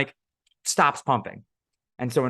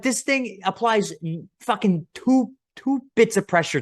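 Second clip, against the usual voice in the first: mocking disbelief; 10 semitones higher than usual. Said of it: "I'm like".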